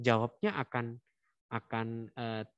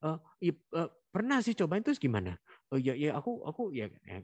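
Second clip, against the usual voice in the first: a hint of a nervous kid stammering; mildly flustered, stumbling reply; lightly voiced flustered child; flustered answer; 5 semitones higher than usual. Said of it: "kalau jawaban gelagapan".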